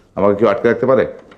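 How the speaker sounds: plain reading voice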